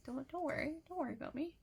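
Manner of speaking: soft, hushed reassuring quote; gentle reassurance. Retold or imitated. Idol telling fan not to worry, softly reassuring.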